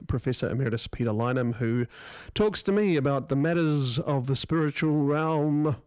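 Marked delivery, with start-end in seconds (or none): 2.3-5.8 slow, spooky ghost voice; drawn out like a haunting spirit; ghostly voice. Pretend. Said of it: "I don't know why I did that in ghostly voice".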